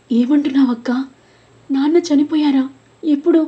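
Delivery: put-on a boy sobbing as he asks when father died; crying question. A narrator's reading. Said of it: "ఏడుస్తూ అడిగాడు". (ఏడుస్తూ అడగడం)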